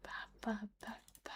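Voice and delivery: unvoiced, barely audible syllables; soft whispered ba ba; whispered babble. Real, not acted. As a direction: breathe the nonsense under your breath. Murmuring nonsense to herself.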